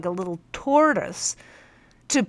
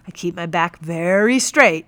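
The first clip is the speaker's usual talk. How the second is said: mild bellow; 6 dB louder than usual. Acted. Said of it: "he bellowed".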